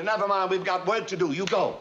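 ordinary talk, nothing marked

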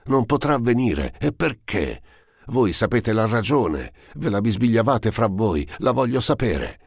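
high-pitched, anguished demand; commanding and distraught outcry; imperious, piercing. A narrator's reading. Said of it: "riprese a voce alta, con un accento insieme imperioso e lacerante".

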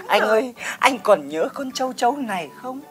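theatrical reminiscence. Acted. Neighbour reminisces to the husband about catching locusts, melodramatic.

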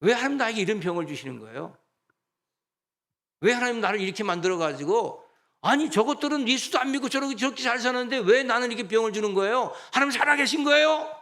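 complaining sick believer. Retold or imitated. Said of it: "그럼 이렇게 원망합니다".

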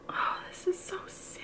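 hushed, teary whisper; whispering while moved by a book; tearful whisper. Real, not acted. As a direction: breathe it out, close to tears. Crying over sad chapter.

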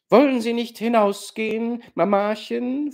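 höher und lauter, drängend; laute Frage. Acted. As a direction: die Mutter energisch hinausbitten. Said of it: "fragte Warja laut". (Warja fragt die Mutter laut und drängend)

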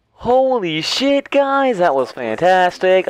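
excited praise. Real, not acted. Excited praise after win.

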